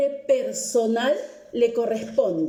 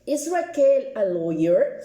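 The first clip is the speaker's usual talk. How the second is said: slow repeat. Shown as a demonstration. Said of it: "Vuelvo con la pregunta y la pronunciación".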